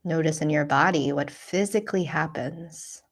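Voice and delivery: calm, unhurried guiding voice with long pauses; guided meditation. Real, not acted. Teacher guiding listeners through a self-compassion practice, calm meditation voice. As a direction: lead them gently through the practice, leaving space.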